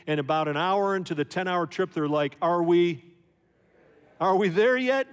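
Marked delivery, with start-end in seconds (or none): 2.4-5.1 put-on whiny kid. Kids whining in the back seat.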